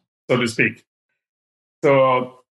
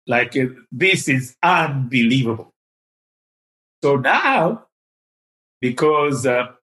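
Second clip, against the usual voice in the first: usual speaking voice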